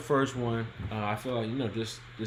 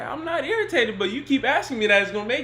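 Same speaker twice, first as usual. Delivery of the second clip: mock annoyed boyfriend; 11 semitones higher, 6 dB louder, faster than usual. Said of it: "So he's like".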